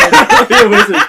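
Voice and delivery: high laughing squeal. Real, not acted. Player reacts to the big deception roll, laughing. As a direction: burst out laughing mid-phrase.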